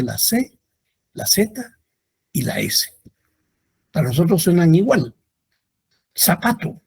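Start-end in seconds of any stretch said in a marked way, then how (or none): 6.1-6.8 Zapato with the z said as a plain s; seseo demo. Shown as a demonstration. Teacher showing how Latin Americans say Zapato. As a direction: say Zapato as sapato. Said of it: "Nosotros decimos zapato".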